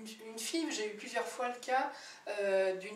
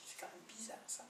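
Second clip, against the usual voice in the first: soft puzzled whisper to herself; hushed, wondering aside; 16 dB quieter than usual. Real, not acted. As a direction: drop to a whisper, half to yourself. Puzzled aside during the story.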